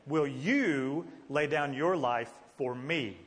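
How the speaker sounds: slow question with "you" stretched and stressed. Shown as a demonstration. Teacher shows the emphasis in Jesus' statement, stressing "you". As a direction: put the weight on "you" and take it slowly. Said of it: "the emphasis in his statement".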